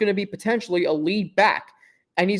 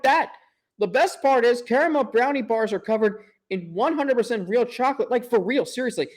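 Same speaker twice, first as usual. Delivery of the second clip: higher-pitched, enthusiastic sponsor read; gushing ad read; 5 semitones higher than usual. Acted. Podcast host selling caramel brownie bars, gushing ad read. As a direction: gush over the product.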